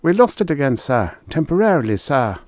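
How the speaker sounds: high-pitched, deferential military reply; reporting officer. A narrator's reading. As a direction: answer a superior in a high officer's voice. Officer answers commander's challenge.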